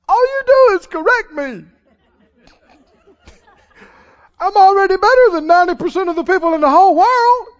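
high, fast, put-upon grumbling; whiny athlete complaining. Retold or imitated. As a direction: protest every correction like a sulking star. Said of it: "And they could say".

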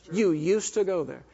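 disbelief landing on a falling close; incredulous restatement. Retold or imitated. Preacher sums up his silent disbelief, incredulous. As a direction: stress used, then let it fall. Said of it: "In my head was".

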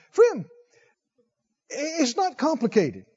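high, emphatic preacher's appeal; fervent preaching. Acted. Preacher pleading with his congregation, rising and emphatic. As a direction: lean in and press each point.

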